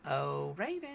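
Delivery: lilting sing-song call; sweet sing-song voice. Shown as a demonstration. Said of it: "I used my sweet sing-song voice".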